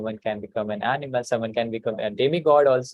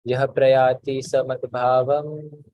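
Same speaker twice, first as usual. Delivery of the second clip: slow recitation; slower than usual. Shown as a demonstration. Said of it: "one sentence at a time".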